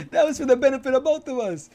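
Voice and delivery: high and loud, still laughing; loud playful aside. Real, not acted. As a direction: toss it off loudly to the co-host.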